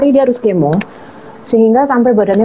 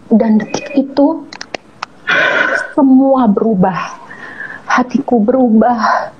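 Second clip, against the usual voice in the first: slow, moved; slower than usual. Real, not acted. Moved reflection, slowed.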